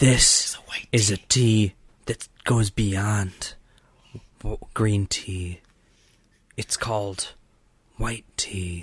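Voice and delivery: playful, secretive, joking put-on stage whisper. Hyping up white tea as a running joke: put-on whisper. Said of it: "Why are you whispering?".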